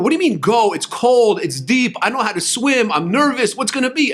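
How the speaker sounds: nervous protest. Retold or imitated. Crowd at the Red Sea told to go, nervous protest. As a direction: voice a crowd balking, lightly acted.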